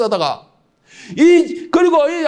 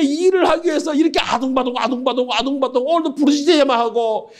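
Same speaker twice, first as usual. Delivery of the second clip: higher, pleading prayer of a frustrated believer; higher pleading complaint in prayer to God; complaining prayer; 4 semitones higher than usual. Retold or imitated. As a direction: wail your grievance to God. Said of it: "제가 이런 기도를 했다".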